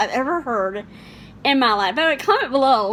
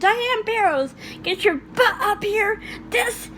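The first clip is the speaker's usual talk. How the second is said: mock yell from the church steps; 9 semitones higher, slower than usual. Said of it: "I just love that line".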